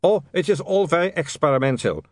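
put-on high, excitable vampire with a thick accent. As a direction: play an eager foreign vampire, pitched high.

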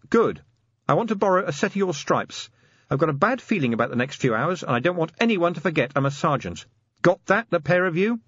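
lightly voiced sergeant giving orders; Angua, commanding sergeant. A narrator's reading.

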